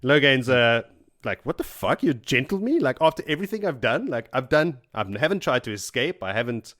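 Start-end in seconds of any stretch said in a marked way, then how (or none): 1.5-6.7 mild mock outrage. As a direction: protest the betrayal, half-hearted anger. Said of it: "like, pissed off".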